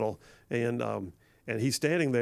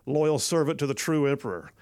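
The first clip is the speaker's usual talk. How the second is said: Maximus speech. Acted. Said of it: "let's see if I can do it".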